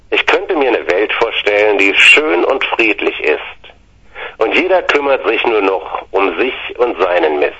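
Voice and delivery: sincere poem reading; poem recital. Acted. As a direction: recite it earnestly, line by line. Reads a poem.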